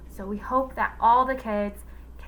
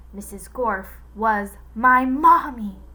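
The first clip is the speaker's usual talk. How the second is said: slow, louder ominous line; menacing reveal; 9 dB louder than usual. A narrator's reading. Villain telling the class his mother, slow menace. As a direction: drop the horrible truth slowly. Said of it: "even more horrible".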